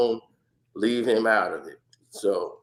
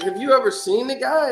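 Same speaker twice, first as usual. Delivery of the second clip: curious; 11 semitones higher, 4 dB louder than usual. Retold or imitated. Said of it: "I was like".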